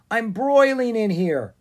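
loud, high, drawn-out complaint; pleading holler from inside a parcel; crying out. A narrator's reading. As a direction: call out slowly in discomfort, pitched well up. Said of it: "he cried".

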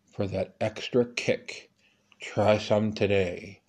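deliberate commercial read; ad tagline repeated. Acted. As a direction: keep selling the wine, unhurried.

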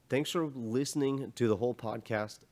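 hoarse, straining voice; voice giving out. Real, not acted. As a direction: voice cracking and failing. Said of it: "Losing my voice".

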